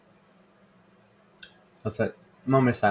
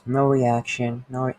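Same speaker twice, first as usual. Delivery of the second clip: mock deadpan; 4 semitones higher, 3 dB louder than usual. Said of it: "I'll be like".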